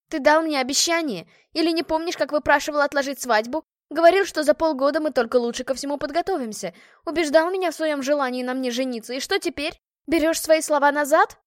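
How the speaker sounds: indignant bride raising her voice; angry reproach. Acted. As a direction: confront him, demanding answers. Jilted bride confronts fiancé.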